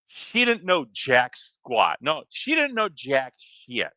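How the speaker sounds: slow, emphatic scornful rant; exasperated rant. Real, not acted. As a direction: rant it out, drawing out each word. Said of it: "I'm ranting again".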